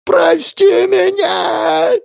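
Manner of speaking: very high, loud, slow crying shout; hysterical scream. Acted. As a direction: howl it on your knees begging. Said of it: "заорал Лоренс".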